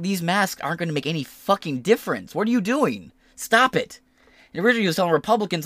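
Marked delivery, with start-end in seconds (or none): 0.0-4.0 higher, exasperated imitation; mock exasperated RFK. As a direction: play him fed up and pleading. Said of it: "he was like".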